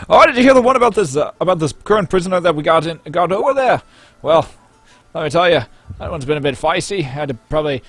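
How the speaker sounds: loud, high boozy storyteller; rowdy drunk patron. Acted. Drunk patron boasting to his mates, loud and high. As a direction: brag it out to your drinking mates. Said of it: "trading stories and like".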